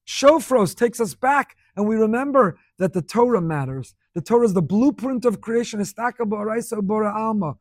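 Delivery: forceful preacher's declaration; impassioned preaching. Real, not acted. Preacher declaring to students that Torah matters, impassioned. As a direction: proclaim it with conviction.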